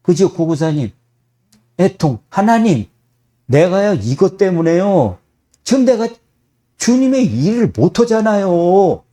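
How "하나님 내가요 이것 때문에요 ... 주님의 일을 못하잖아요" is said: lightly raised, pleading to God; mock pleading prayer. Believer pleading in prayer, lightly raised.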